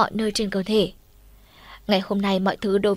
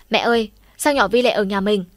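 a raised, panicky call to mom; yelling to mom; 4 dB louder than usual. Acted. Boy yelling to his mother about the girl at the door, alarmed. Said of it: "hét lên".

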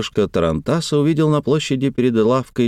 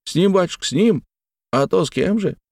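put-on eager old servant; 9 semitones higher than usual. A narrator's reading. Servant Elisey answering.

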